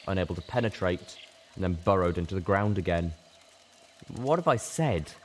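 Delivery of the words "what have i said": raised, dawning horrified question; mounting horror. A narrator's reading. Littlepip asks herself in horror, a touch raised. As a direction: let the fear rise as you ask. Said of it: "I asked myself in mounting horror".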